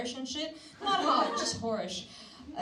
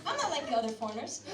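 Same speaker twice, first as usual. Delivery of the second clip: laughing mock quote; faster than usual. Mocking quote, laughing, fast.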